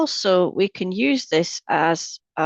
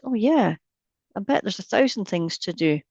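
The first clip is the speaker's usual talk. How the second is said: lightly voiced eager agreement, pitch lifting at the start; a hint of a busy mind joining in; mind chiming in; 3 semitones higher than usual. Meditation teacher voicing the busy mind, lightly eager. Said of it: "the mind goes".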